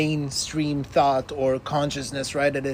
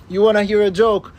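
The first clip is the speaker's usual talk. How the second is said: prankster; 5 semitones higher, 7 dB louder than usual. Retold or imitated. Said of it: "he will see, like".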